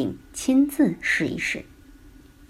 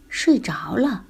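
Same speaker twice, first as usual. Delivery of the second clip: sleepy whisper; 3 semitones higher, slower than usual. A narrator's reading. Boy falls asleep.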